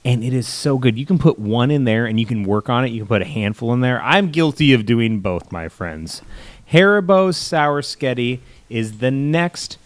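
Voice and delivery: upbeat sponsor pitch voice; ad read. Acted. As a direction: sell it like a cheesy ad host. Reads a sponsor ad.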